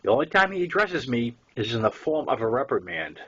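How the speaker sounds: ordinary delivery, nothing marked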